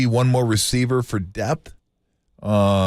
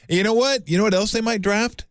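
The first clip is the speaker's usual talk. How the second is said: teasing build-up; 11 semitones higher than usual. Real, not acted.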